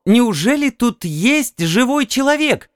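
high, eager female voice; excited woman. A narrator's reading. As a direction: call out hopefully.

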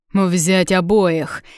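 loud, slow, drawn-out command; shouted order. A narrator's reading. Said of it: "крикнул Редрик гвардейцам".

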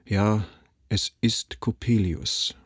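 slow, defeated confirmation; a father who has given up; father answering his wife in a tired, broken voice; weary, broken voice. Acted. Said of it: "mit matter, gebrochener Stimme".

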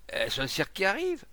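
loud, high bystander's question; curious call. Acted. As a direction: call it out, pitch climbing.

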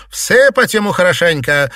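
loud, high angry order; shouted. A narrator's reading. Mistress ordering a servant thrashed, shouted. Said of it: "закричала Фэнзе".

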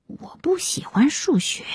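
soft, high, timid-sounding reply; very small voice. A narrator's reading. Daughter answers angry mother so others won't hear, hushed. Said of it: "她很小声地说".

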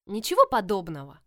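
loud protest, cutting in. A narrator's reading. Tella rejects her sister's warning, protesting loudly. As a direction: snap back in protest. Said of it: "запротестовала Телла".

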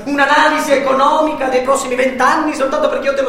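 loud, mocking, half-laughing; loud bitter sarcasm. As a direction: shout the sarcasm with a sour laugh. Bitter sarcasm during quarrel. (sarcasmo amaro ad alta voce)

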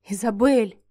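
trembling voice. A narrator's reading. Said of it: "голос его дрожал".

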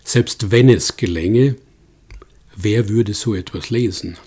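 mildly self-satisfied rhetorical question, paused midway; smug aside. Retold or imitated. Guest quoting Friedel's added jab at objective history, mildly smug. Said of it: "wie er suffisant hinzufügte".

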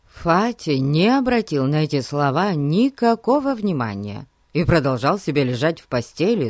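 usual speaking voice

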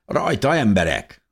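high, lively call to action; rally the group with gusto; enthusiastic rallying. A narrator's reading. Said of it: "mondta Dávid lelkesen tapsolva".

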